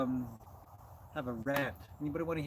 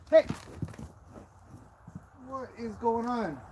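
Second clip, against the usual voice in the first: surprised; 8 semitones higher, 4 dB louder than usual. Real, not acted. Horse grabs at her chair.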